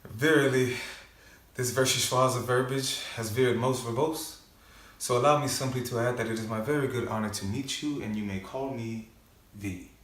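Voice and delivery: courtly self-introduction with a flourish; wordy avenger introducing himself; theatrical monologue. Acted. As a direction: open emphatically, then soften to the name. Performs end of film monologue.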